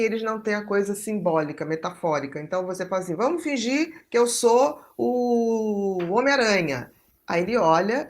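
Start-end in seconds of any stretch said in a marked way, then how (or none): 3.1-6.9 slow, drawn-out make-believe proposal; playful invitation. Retold or imitated. Adult inviting an autistic child to play pretend, playful invitation. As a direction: propose a pretend game, stretching it out.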